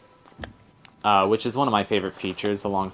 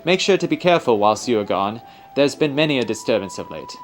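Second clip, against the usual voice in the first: put-on mild amateur British accent for an old guardian; hammed-up British accent, formal and careful; faster than usual. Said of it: "sorry about my terrible accent".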